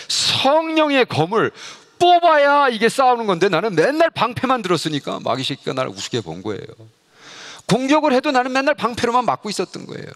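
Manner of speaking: high, loud, impassioned; fervent preaching. Real, not acted. Preacher exhorts the congregation about the sword of the Spirit, high and loud. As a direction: drive the point home with fire.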